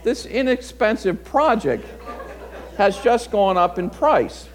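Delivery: a chuckle through the words at the cost; rueful laughing self-talk. Retold or imitated. Pastor laughing at the broken windshield, rueful. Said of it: "now I'm saying to myself".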